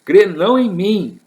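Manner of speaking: high, loud opening proclamation; crying out. Retold or imitated. Preacher continuing Jesus's words to the crowd, crying out. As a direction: raise the voice to proclaim it. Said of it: "clamando, dizendo".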